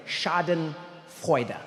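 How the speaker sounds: Schadenfreude stretched out very slowly. Shown as a demonstration. Repeating the German word for the audience, very slow. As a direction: drag out Schadenfreude syllable by syllable. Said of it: "German word".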